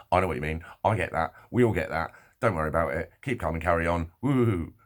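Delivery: punchy, emphatic stock reassurances; mock platitudes. Imitating what the girl didn't say, mock reassuring. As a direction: reel off hearty hollow comfort.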